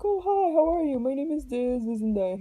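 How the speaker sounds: loud, high-pitched friendly hello; nice doctor greeting. Retold or imitated. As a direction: imitate an overly friendly doctor introducing himself. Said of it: "He was really nice".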